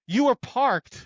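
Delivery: high, startled What-you-were-parked disbelief; surprised. Retold or imitated. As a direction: sound caught off guard, voice jumping up. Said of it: "He's like".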